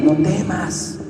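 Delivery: quiet comfort after a worried cry; gentle, settled "No temas"; calm reassurance. Retold or imitated. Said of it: "les dio palabra".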